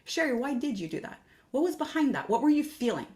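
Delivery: gentle curiosity. Shown as a demonstration. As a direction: question yourself like a caring friend. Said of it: "with a sense of love and curiosity".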